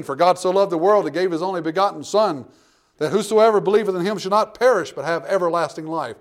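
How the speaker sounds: preacher reading the promise aloud; scripture reading. Acted. Quotes John three sixteen.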